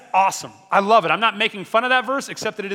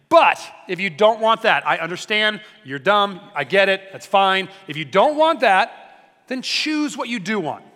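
mock-dismissive Joshua; 5 dB louder, slower than usual. Joshua voiced, mock-dismissive ultimatum.

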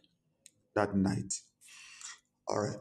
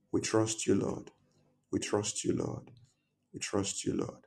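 trailing softly to a whisper; fading to whisper; 4 dB quieter than usual. Acted. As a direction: let it fade down to a breath.

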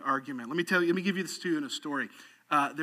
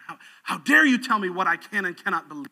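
indignant, acted comeback; playing an affronted young man; offended retort; 4 dB louder than usual. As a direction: sputter it, then push hard on the challenge. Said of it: "It's offended and goes".

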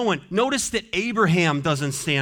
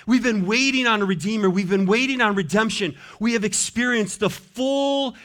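impassioned preaching. Real, not acted. Preacher pleading for someone to take the scroll, impassioned preaching. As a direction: preach it with mounting urgency.

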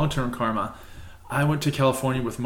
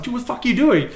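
raised, panicked retold outburst; freaking out; 10 semitones higher, faster than usual. Man retelling his shock at his friend's prank, raised panic. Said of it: "I was like".

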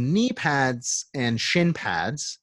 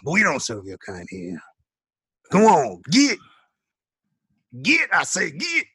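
shooing out, rising to a shout; snooty waiter; 4 semitones higher than usual. Pretend. Shopkeeper shooing customers away.

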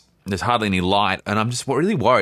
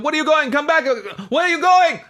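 high, imitated yelling after someone; retold frantic calling out; 3 dB louder than usual. Pursuer demands storyteller come back, retold high frantic shout. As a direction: mimic a pursuer crying out, pitch way up. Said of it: "he said".

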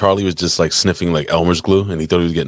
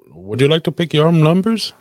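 higher-pitched mock New York accent; 6 semitones higher than usual. Shown as a demonstration. Co-host shows off a New York accent, put-on New York accent. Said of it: "you want me to do a New York accent".

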